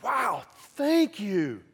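slow, touched thank-you; grateful wow. Retold or imitated. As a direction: let the thanks land slowly, moved. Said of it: "you're like".

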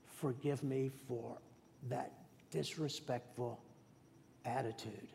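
a quiet plea for forgiveness; under my breath. Retold or imitated. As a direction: pray it softly, almost to yourself. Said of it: "under my breath".

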